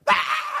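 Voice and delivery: sharp high whispered gasp of shock; startled gasp. Retold or imitated. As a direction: gasp as if you just saw the money. Brother finds money in sack.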